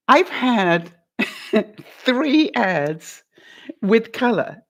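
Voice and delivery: drawn out, stretching each word; mock rueful slow admission; slow realization. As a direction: let the realization dawn slowly. Customer realizes what she did.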